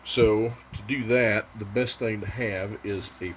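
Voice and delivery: straining while talking; grunting with effort as he works. Real, not acted. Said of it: "Sorry about the grunting".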